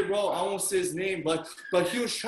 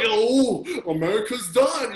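loud mock despair with a laugh; hammed-up doom, half laughing; mock freak-out; 2 semitones higher, 4 dB louder, slower than usual. Preacher imitates his reaction to the riot, mock freak-out. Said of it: "freaking out".

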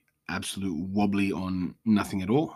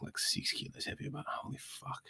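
whispered aside; 6 semitones higher, 13 dB quieter than usual. Real, not acted. Joking aside about gaining weight.

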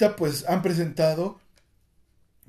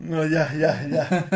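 laughing; 4 dB louder, much slower than usual. Real, not acted. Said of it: "Prometo ya no reírme".

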